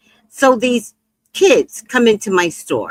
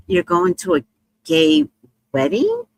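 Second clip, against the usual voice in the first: understated astonishment, pitch jumping at the end; mild surprise. Retold or imitated. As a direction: check it, with a touch of disbelief. Reacts in surprise to Flint's news.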